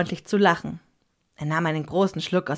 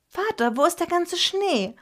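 put-on sad child; 12 semitones higher than usual. A narrator's reading. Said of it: "fragte ich ihn traurig".

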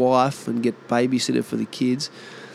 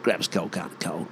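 quick Aussie tongue-twister; rapid, slurred Aussie beer order; broad Aussie order; 4 dB quieter, faster than usual. Acted. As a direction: reel it off fast in thick Aussie. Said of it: "used to always love that".

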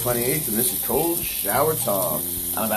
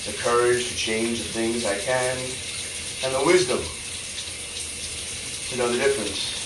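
prayer. Acted. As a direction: pray it earnestly, line by line. Serenity Prayer recited thrice.

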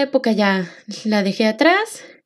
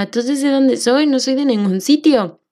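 frustrated. Retold or imitated. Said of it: "me daba mucha rabia porque yo decía".

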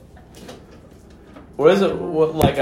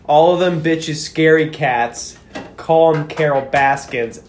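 dramatic poem reading. Pretend. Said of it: "read 'em like a dramatic poem".

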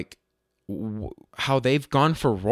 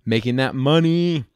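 playful money hype; 2 semitones higher, 5 dB louder than usual. Pretend. Playful hyped echo of own phrase.

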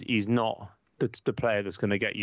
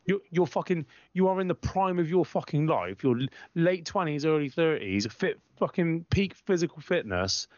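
exasperated rant; 6 semitones higher than usual. Real, not acted. Ranting at moaning players.

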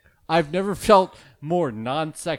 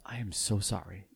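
a hint of a grave public apology, played for laughs; mock solemn apology; 4 semitones lower than usual. Host addresses seven listeners in a hushed mock-solemn apology. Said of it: "this is a special message to our listeners".

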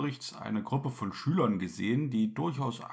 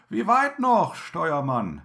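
calling out; 3 semitones higher, 4 dB louder than usual. Acted. Passengers calling to helmsman.

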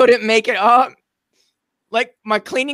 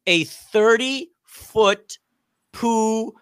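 slow, loud, high, half-crying with laughter; laughing disbelief; 7 semitones higher, 3 dB louder, slower than usual. Real, not acted. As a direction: cry out the disaster as you laugh. Poo geyser story climax.

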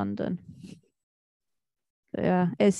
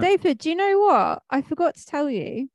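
high, loud eager opener; excited; 6 semitones higher, 6 dB louder than usual. Real, not acted. Telling David about the Hummer, excitedly. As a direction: burst out with the news.

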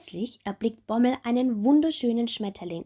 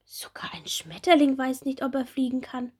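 high, bright little bumblebee; small bumblebee voice; 5 semitones higher, 3 dB louder than usual. Acted. Little bumblebee Bommel asking Marie about her wings, high childlike voice. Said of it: "Die kleine Hummel staunt".

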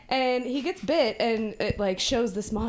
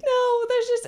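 retold backpedaling; 5 semitones higher, 3 dB louder than usual. Retold girl backpedals on her name.

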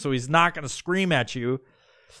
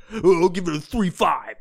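hint of a mock pizza-reviewer voice; lightly hammed New York pizza guy; Portnoy; 3 semitones higher than usual. Mocking a reviewer scoring pizza, lightly put-on Guido voice. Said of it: "Jeff Portnoy, Portnoy pizza guy".

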